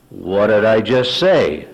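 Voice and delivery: slow, needling question; mock innocence. Husband goading his wife, mock innocent. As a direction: bait them with drawn-out feigned ignorance. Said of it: "reacted to the sarcasm".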